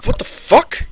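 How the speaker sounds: high, whispered shocked squeak; hushed mock outrage; whispered disbelief. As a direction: gasp it out in stunned disbelief. Retells his reaction again.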